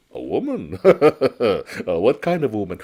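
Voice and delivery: steady and calm against the panic; calm noodle seller. Acted. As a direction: noodle seller calmly asking what is wrong.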